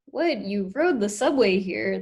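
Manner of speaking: can't believe it, pitch jumps; disbelief. Shown as a demonstration. Student reacting to deadpan puppet, stunned disbelief. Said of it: "Like, you can't believe it".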